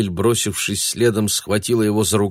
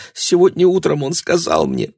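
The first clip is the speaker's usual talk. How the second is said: high and louder, tearful urgency; girl confessing to the angry man; frightened girl; 9 semitones higher, 4 dB louder than usual. A narrator's reading. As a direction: blurt it out through fear.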